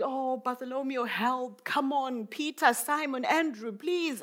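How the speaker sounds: high-pitched, pleading appeal; desperate begging. Acted. Desperate mother begging the disciples for help, pleading. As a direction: call on each one in an urgent high plea. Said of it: "she's begging and she's crying".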